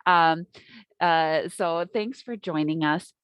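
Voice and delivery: muffled behind a face mask; through face mask. Real, not acted. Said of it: "hopefully you can hear me through my mask".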